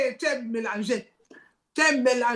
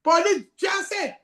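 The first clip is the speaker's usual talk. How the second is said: surprised exclaim; 5 semitones higher, much slower than usual. Pretend. Reacting to Facebook news.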